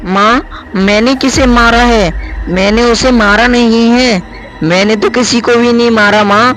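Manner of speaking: put-on a girl protesting her innocence to her mother. Daughter denies killing, bewildered.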